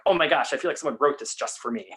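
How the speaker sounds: mildly excited, pitch lifted; retold excitement. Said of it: "very excited".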